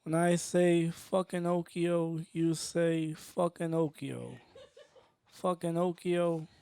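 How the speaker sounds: slow, measured chant lead; deadpan call and response. Acted. Comic leading the audience in an Okio chant, slow and understated. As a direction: spell out the chant slowly, understated. Leads crowd in second chant.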